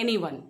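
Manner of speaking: AN-yone, stress on the opening syllable; first-syllable stress. Shown as a demonstration. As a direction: hit AN in anyone, then fall. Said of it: "first syllable पे stress है".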